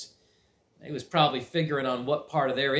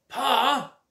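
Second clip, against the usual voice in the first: raised, louder yell for Pa; yelling cousin; 11 semitones higher, 5 dB louder than usual. Acted. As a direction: call out in protest. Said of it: "yelled Cousin Homer".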